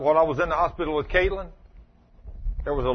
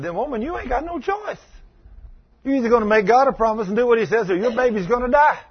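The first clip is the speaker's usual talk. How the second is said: stern warning; 6 semitones higher, 4 dB louder than usual. Retold or imitated. Confronting mother in ICU.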